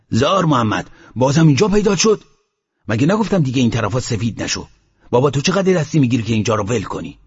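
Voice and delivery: mock holler with lively, scolding rises; retold shouting. The sheikh scolds Mohammad for turning up, mild retold shout. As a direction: imitate a sheikh raising his voice. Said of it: "صداش انداخت سرش و داد زد".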